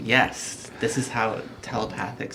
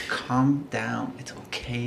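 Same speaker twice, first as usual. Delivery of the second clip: gently calming a friend; reassuring, hushed at the end; soothing; 3 dB quieter, slower than usual. Acted. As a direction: talk them down, trailing softer. Character soothing a grumbling companion.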